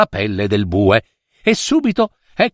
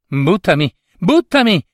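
insistent high cry; high-pitched urging; 6 semitones higher than usual. A narrator's reading. Ranocchino urges the hesitating queen to throw him, high and insistent. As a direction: urge it on, pitched right up.

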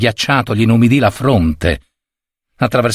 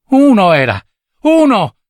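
put-on high, emphatic boy's voice; regaining courage; 8 semitones higher, 4 dB louder than usual. A narrator's reading. Boy answers the old servant, regaining courage. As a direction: burst out with it, higher and falling. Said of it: "riprendendo coraggio".

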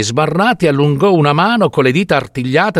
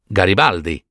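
lower, mildly bewildered question; stunned; 6 semitones lower than usual. A narrator's reading. Doctor puzzled by the old woman's question, stunned. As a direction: ask it as a puzzled doctor, understated. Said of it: "domandò il medico stordito".

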